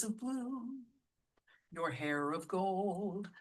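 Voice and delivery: a break after blue, then your hair of gold slow; your eyes of blue, then a rest before your hair of gold; split packets. Shown as a demonstration. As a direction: separate the two phrases with a rest. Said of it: "split between the two packets".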